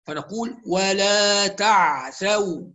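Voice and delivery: تعثوا with a held, unmoved ع; careful ع in تعثوا; sukun ain. Shown as a demonstration. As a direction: give the silent ع its full length. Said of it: "العين الساكنة ننتبه".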